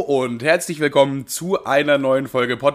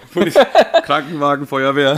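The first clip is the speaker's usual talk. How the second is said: high, loud mock alarm; excited echo; 3 semitones higher, 6 dB louder than usual. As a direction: blurt it out like a siren. Echoing the police arrival.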